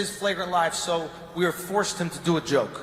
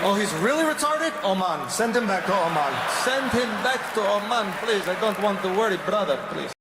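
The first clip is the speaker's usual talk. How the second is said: put-on Gulf Arab accent. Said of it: "God, great accent".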